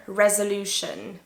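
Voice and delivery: "resolution" modelled clearly as REZ-uh-LOO-shun; careful pronunciation. Shown as a demonstration. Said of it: "if it's singular".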